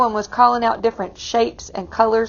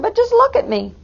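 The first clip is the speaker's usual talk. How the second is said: put-on whiny girl voice; 12 semitones higher than usual. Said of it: "Camilla answered".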